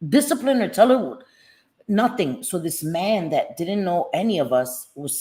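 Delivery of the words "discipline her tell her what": urging friend. Retold or imitated. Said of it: "I'm looking at my friend like".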